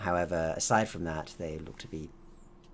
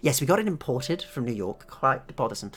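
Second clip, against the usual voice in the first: higher, louder woman scientist voice; proud scientist; 13 dB louder than usual. Acted. Scientist tells guests of her artificial life, high and eager. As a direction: explain briskly, pitched up.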